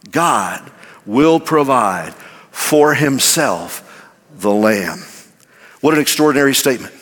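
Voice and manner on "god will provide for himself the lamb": God will provide said slowly, each word weighed; slow emphatic recital. Shown as a demonstration. Preacher leading the church in slow recital. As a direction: lead the congregation in the words slowly. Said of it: "Would you say it with me?".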